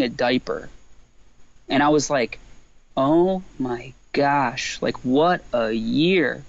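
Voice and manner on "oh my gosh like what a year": slow, drawn-out dismay; exasperated disbelief. Retold or imitated. Dad changing a diaper during the Grammys, slow exasperated disbelief. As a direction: stretch every word in weary disbelief.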